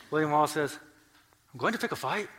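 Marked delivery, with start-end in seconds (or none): 1.5-2.3 higher-pitched, lightly put-on Hispanic Scottish accent. Preacher playing William Wallace riding out, rough Hispanic Scottish accent. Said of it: "do my best Hispanic Scottish accent".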